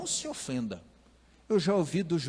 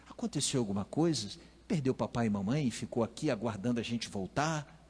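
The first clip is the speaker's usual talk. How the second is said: mild concern; 3 semitones lower, 4 dB quieter than usual. Pretend. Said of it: "Seria um andarzinho".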